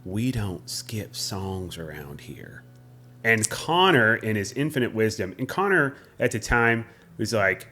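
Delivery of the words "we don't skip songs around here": slow, low, softer menace; mock-threatening cowboy, drawn out and lowered; tough guy. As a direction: imitate a swaggering bar tough laying down the law. Imitates tough boyfriend confronting them.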